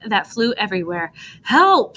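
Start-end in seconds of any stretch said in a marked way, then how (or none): 1.4-1.9 high, loud shout; cry for help. A narrator's reading. Dog Jumper fleeing three snow monsters, loud high cry. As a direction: scream as the monsters chase. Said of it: "shouted Jumper".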